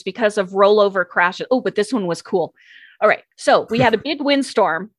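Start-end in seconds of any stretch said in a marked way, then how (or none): 1.5-4.9 real, mildly excited storytelling; eager to share a favorite traffic story; a touch of giddy enthusiasm. Real, not acted. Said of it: "Sorry, I get all excited about traffic".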